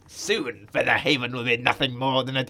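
lightly evil low voice; a hint of villainy, half-read; villain starting his gloat, mildly sinister; evil grin. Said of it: "Evil grin".

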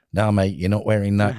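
lightly put-on Aussie instructor; Australian accent. Grumpy instructor to student pilot about the helmet, mock Australian accent. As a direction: imitate an Australian flying instructor refusing. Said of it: "that's my Australian accent".

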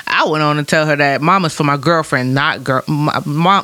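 slightly snide retelling of his read; lightly mocking take on his tone; mocking imitation. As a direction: mimic his pointed reading. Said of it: "the way you said it was like".

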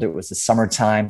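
put-on American voice; Australian doing an American; American accent. Shown as a demonstration. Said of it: "an American accent for me".

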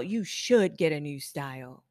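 firm, emphatic agreement; mirroring the client. Acted. Stylist mirroring a regulator's demand, firm. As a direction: hand the certainty straight back. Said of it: "you just mirror their personality".

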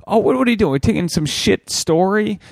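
incredulous high what; mock outrage, high and quick; mock surprise. Mocking the phone ban.

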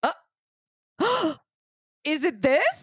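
squeaky, slow filtered voice; high voice filter. Real, not acted. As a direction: gasp through a chipmunk filter. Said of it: "voice modifier".

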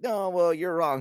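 hammed-up huffy denial; mock flat earther. Podcaster mocking a flat earther arguing with Neil deGrasse Tyson, loud mock protest.

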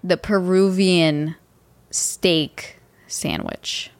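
slow, careful Peruvian steak sandwich; careful pronunciation. Shown as a demonstration. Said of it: "Can you say what it's called again?".

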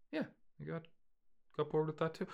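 high, soft, small admission; sheepish son. Acted. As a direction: admit it to Dad in a small high voice. Acted son admitting to father.

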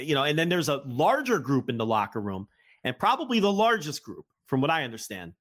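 tired, strained voice giving out. Real, not acted. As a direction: voice giving out after hours of talking. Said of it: "I'm losing my voice".

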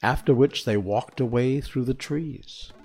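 reading a storybook aloud; gentle read-aloud narration; story narration. A narrator's reading.

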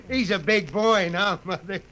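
laughing, easygoing; laughing, easygoing brush-off. Acted. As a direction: chuckle it to your wife. Father laughs off mother's warning.

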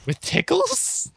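high squeaky disbelief; shocked high question; incredulous. Real, not acted.

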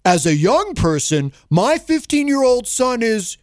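lightly voiced Trump; Trump impression. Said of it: "add that to the rest of this".

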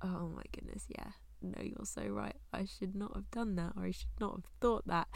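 soft, half-whispered admission of being wrong; convicted realisation. Retold or imitated. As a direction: breathe it out quietly as if caught out by God. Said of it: "and you go".

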